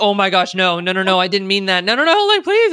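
rising, pleading no no no; flustered backpedal. Retold or imitated. Retelling herself panicking when a sarcastic joke is taken seriously. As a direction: frantically take back the joke. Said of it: "You're like".

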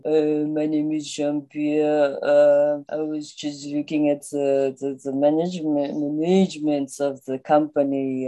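put-on slow, halting French accent; hesitant French-accented introduction. Frenchman introducing himself in a business meeting, French accent. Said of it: "If you are French and you're in a business meeting".

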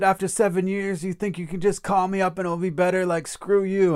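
high, indignant mock outburst; retold angry rebuke. Father rejecting his son's phone call, imitated angry and high. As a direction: act out an outraged rejection.

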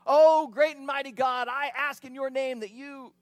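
loud, lofty mock prayer; booming, hammed-up prayer to the heavens; mock grand incantation. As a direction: ham up a wizard's invocation. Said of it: "Gandalf type incantation".

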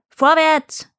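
high, urging call; shouted command. A narrator's reading. Farmer shouts back at his mooing cow, commanding. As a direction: shout the order back, moderately loud. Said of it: "schrie der Bauer zurück".

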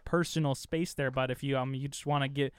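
lightly put-on Canadian accent, apologetic; a hint of an overly polite Canadian. Joking to cohosts, mild Canadian accent, apologetic. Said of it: "You sound like a Canadian".

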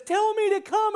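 high, loud, urgent shout; acted brash demand; bold call. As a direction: call out across the water. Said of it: "suddenly he says".

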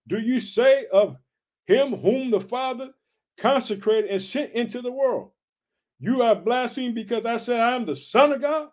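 scripture reading. Acted. Preacher reading Jesus' challenge to his accusers, deliberate scripture reading.

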